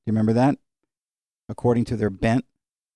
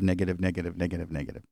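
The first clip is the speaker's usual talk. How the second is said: fading repetition; 5 semitones lower, 7 dB quieter, faster than usual. Shown as a demonstration. Repeated word trailing away.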